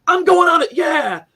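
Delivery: high, loud, cocky boast before the ride; mock bravado. Amusement park bravado.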